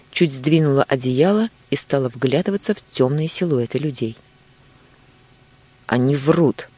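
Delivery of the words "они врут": hoarse. Acted. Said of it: "хрипло сказала она". (хрипло)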